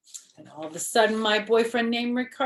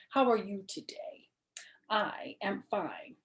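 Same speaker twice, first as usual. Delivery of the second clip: soft whisper; 2 semitones higher, 5 dB quieter than usual. Acted. Girl whispering to the boy she sat on. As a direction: keep it a sweet secret. Whispered sweet talk to Ricardo.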